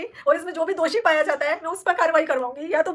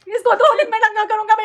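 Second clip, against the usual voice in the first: louder, insistent throwing back of his words; accusing quote; 3 semitones higher, 5 dB louder than usual. Retold or imitated. (ऊँची आवाज़ में आरोप लगाते हुए)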